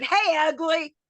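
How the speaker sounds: high, pushed mock taunt at the wrestler; Granny heckling the big wrestler from ringside, hollering. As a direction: yell a playful insult. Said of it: "I start hollering at him".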